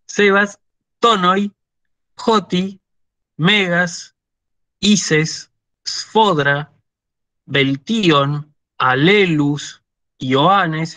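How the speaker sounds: paroxytone words spaced out, penultimate syllable stressed; careful word-list citation, each next-to-last syllable accented; reading Greek examples. Shown as a demonstration. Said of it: "Las voy a leer".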